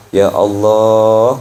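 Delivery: pleading prayer. Acted. Preacher voicing a servant begging God. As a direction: stretch out ya Allah slowly.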